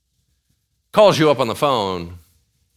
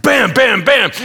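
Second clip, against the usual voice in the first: mock triumphant bams; 10 semitones higher, 8 dB louder than usual. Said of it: "you're just like".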